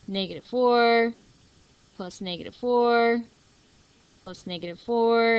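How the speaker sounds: flat, even robot-like counting. Real, not acted. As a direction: drone it like a robot. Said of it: "I sound like a robot".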